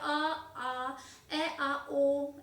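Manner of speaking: आ, ए and ओ each sounded as a separate pure vowel; vowel sound demo. Shown as a demonstration. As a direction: sound out आ, ए, ओ one by one. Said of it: "ऐसे sound आए".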